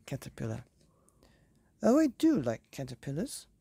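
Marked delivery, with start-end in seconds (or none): 1.8-3.5 delighted godmother. Acted. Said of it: "said the fairy godmother".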